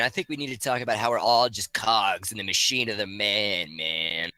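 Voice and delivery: glitchy robotic connection; distorted, robotic audio. Real, not acted. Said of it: "you broke up horribly back then".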